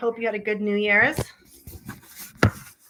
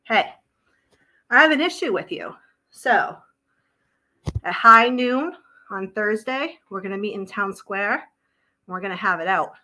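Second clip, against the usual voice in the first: mock challenge; 4 dB louder than usual. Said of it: "It should be more like this".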